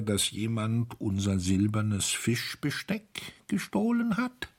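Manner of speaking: stiff rough voice, rising at the end; hoarse, halting voice. A narrator's reading. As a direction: speak as if out of practice. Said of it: "sprach mit rauer, leiser Stimme". (rau und stockend, wie halb verlernt)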